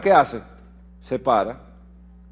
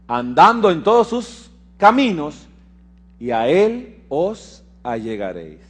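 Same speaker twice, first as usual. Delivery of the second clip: measured, emphatic verse reading; lectura de las Escrituras; 3 dB louder than usual. Acted. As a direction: read the promise out solemnly to the congregation. (lectura bíblica solemne y enfática)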